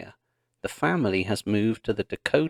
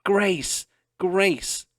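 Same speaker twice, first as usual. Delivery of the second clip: high calling of the name; 9 semitones higher than usual. A narrator's reading. Mary calling from the shanty doorway for Grace. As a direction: call out from the doorway.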